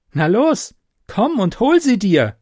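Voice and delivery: high, loud battle taunt; taunting shout. A narrator's reading. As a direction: dare the demon to come. Valerie taunts the charging demon.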